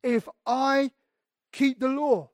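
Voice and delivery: a hint of a smug Pharisee; mock Pharisee. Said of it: "scribes and Pharisees who would say".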